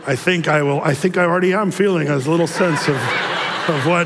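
put-on joking German-accented English, laughter creeping in; Klaus Schwab impression. Pastor mimicking the clip he just played, jokey German accent. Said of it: "I shouldn't do my picture".

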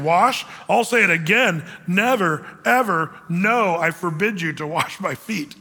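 "Never", "ever" and "no" each set apart and punched; emphatic refusal. Acted. Peter forbidding Jesus to wash him, emphatic, measured refusal. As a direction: declare it word by word, slowing from "no". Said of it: "put the sentence together in more of the Greek".

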